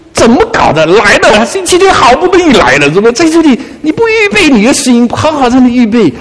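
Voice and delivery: exasperated mock scolding, rising high; high-pitched, retold reproach; flustered inner grumble. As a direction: fret aloud at inattentive churchgoers. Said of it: "我心里面好慌啊".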